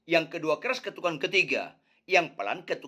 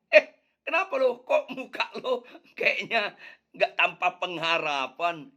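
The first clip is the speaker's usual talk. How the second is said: cheery friend. Acted. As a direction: hail a buddy, teasing. Friend greets gloomy man.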